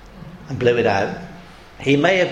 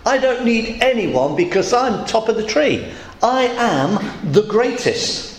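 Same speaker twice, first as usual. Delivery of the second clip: boastful king; 4 semitones higher than usual. Retold or imitated. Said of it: "what he meant by that is".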